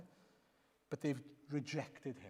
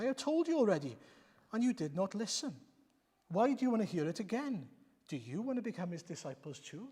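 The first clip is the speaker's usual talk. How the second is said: exasperated; 4 semitones higher than usual. Acted. Man fed up with Pharisees.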